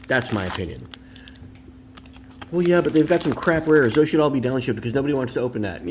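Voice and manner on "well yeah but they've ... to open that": higher nagging objector voice; mocking objector voice. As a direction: voice a whiny collector.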